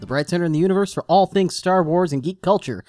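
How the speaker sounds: podcast show-opening announcer read. Acted. Host welcoming listeners to Tosche Station Radio, announcer read. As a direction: deliver a practised radio-host intro.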